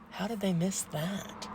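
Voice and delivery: soft, slow puzzlement; quiet disbelief. Retold or imitated. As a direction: wonder it slowly under your breath. Puzzled reaction, set against next line.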